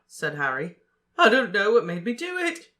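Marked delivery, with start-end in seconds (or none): 1.2-2.7 louder, higher, breathless gasp. A narrator's reading. Ron telling Harry of his blunder, gasping. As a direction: gasp it out in horror. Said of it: "Ron gasped again".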